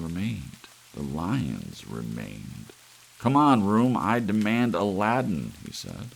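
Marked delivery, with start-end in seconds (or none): 3.2-5.5 loud, high, insistent demand; demanding shout. Acted. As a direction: yell at the stubborn room. George yells at broken room.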